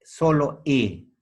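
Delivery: slow, drawn-out answer, "Solo E"; slow demo. Shown as a demonstration. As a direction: stretch "Solo E" so the point lands. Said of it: "¿Qué suena?". (despacio y marcado, "Solo E")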